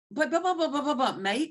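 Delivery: high, laughing stammer of buts; mock-protest a call while giggling; teasing imitation of a coach's spluttering protest; playful protest. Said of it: "Lauren says to me".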